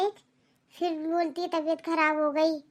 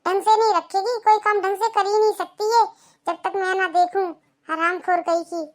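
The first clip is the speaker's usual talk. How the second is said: berating mother-in-law. Acted.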